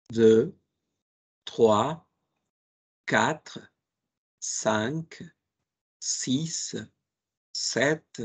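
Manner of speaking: counting zero to nineteen in French slowly, one word at a time; teacher leading a repeat-after-me drill; French counting for repetition. Shown as a demonstration. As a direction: pause after each number so students can repeat. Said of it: "repitan después de mí".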